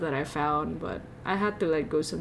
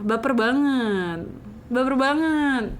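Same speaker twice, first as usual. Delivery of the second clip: mock emotional; 4 semitones higher, 3 dB louder than usual. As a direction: wail it in pretend emotion. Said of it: "I'm getting emotional".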